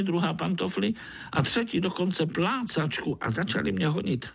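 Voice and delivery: dramatic mosquito tale; excited mosquito tale. Acted. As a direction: rush through the adventure. Mosquito tells his chase.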